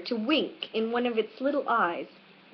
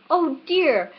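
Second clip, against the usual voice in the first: sorrowful; 6 semitones higher, 5 dB louder than usual. A narrator's reading. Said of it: "cried Alice in a sorrowful tone".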